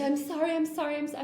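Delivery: imitated flustered apology. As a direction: imitate someone apologising over and over. Imitating student's repeated apology.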